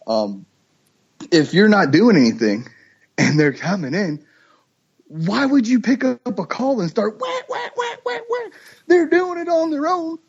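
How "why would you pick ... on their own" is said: much higher mocking voice; mock frantic caller. Hunter mocks a hunter calling at ducks already landing, way higher. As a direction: ridicule the guy who won't stop calling.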